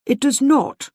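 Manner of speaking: weight on every word of "It does not"; emphatic. A narrator's reading. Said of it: "he said emphatically".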